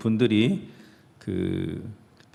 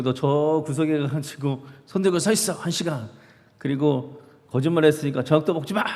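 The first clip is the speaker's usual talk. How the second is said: a hint of a stern mother, pitched higher; lightly voiced mom handing out punishment; 4 semitones higher than usual. Mother punishing her son, mild mock sternness. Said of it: "엄마가 엄청 야단치고".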